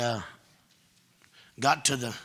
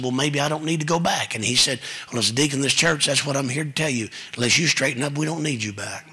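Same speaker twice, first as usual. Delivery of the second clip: building preaching; 6 dB louder than usual. Real, not acted. Deacon's story retold loudly.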